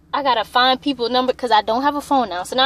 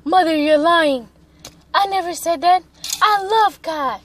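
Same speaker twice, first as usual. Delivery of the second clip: higher-pitched, hammed-up declaration; earnest protest with a touch of self-mockery; mock heroic; 5 semitones higher than usual. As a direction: play the self-styled hero standing up to a parent. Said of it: "with my heroic ass".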